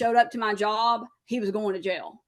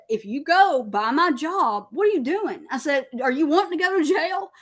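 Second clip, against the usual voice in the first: retold confrontation; 6 semitones higher than usual. Wife confronting husband about jail risk, raised and demanding. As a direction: scold him for risking jail.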